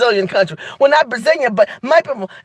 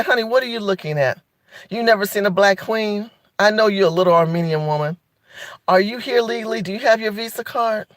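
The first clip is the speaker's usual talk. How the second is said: softer, low, sassy put-down; sassy Black queen; 3 semitones lower, 4 dB quieter than usual. Retold or imitated. To a staring Armenian lady at the mall, a soft, sassy put-down. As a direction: cut her down sweetly but sharply. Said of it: "I would say".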